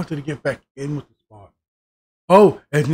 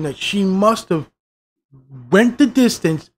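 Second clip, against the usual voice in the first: angry rant; 3 semitones higher, 6 dB louder than usual. Retold or imitated. Yelling at Halsey on screen about the plot, loud fury. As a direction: tear into her for the dumb writing. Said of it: "And I went".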